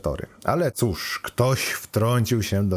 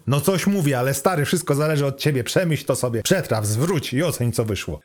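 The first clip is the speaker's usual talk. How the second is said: higher, breezy know-it-all computer; lightly voiced chatty AI; 7 semitones higher, 4 dB louder than usual. Car computer advises the lovestruck student, chatty and cheeky. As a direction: lightly play an AI rattling off romantic advice.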